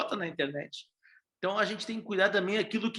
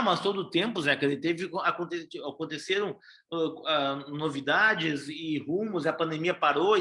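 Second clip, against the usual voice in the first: ordinary talk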